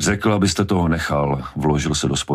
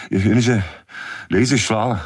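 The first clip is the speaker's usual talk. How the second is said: higher-pitched, strained insistence; desperate; 6 semitones higher, slower than usual. A narrator's reading. Hooper answering Brody's disbelief, desperate. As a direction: insist on it, grasping for belief. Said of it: "Zoufale se snažil udržet tempo".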